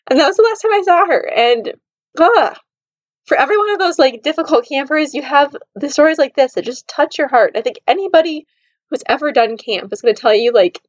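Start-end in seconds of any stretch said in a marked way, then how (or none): 0.1-7.5 higher, choked-up emotion; pushing through tears; tearful. Real, not acted. Remembering the girl she never saw again, tearful. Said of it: "I'm gonna cry just talking about this".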